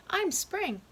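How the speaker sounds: high, bright announcement of spring; chirpy spring. Acted. Child groundhogs in seasons skit.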